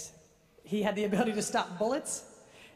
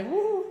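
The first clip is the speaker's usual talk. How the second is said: high, louder "woo"; playful whoop; 9 semitones higher, 5 dB louder than usual. Pretend. Speaker whooping at a superhero picture, playful whoop. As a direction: give a quick, high whoop.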